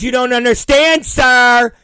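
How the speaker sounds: loud, high imitation of a fed-up official; mock exasperated agent. Agent talking down a passenger, mock exasperated. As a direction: act out an agent losing patience.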